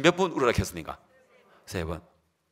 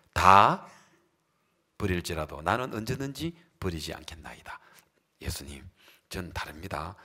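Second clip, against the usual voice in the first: whispered vow; 9 semitones lower, 3 dB quieter than usual. Acted.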